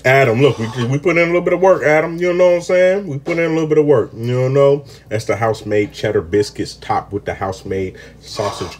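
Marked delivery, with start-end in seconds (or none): 0.0-4.9 excited. Real, not acted. Bragging to Adam.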